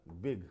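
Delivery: बिग as one single beat. Shown as a demonstration. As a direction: say बिग in one unbroken syllable. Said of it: "एक ही बार में बोल दिया". (बिग एक ही बार में)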